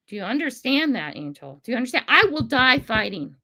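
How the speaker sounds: emotional. Real, not acted. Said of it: "I'm getting super emotional".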